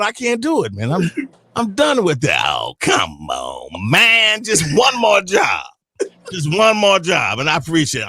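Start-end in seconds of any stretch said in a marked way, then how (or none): 2.5-7.4 hammed-up pleading yell; begging shout.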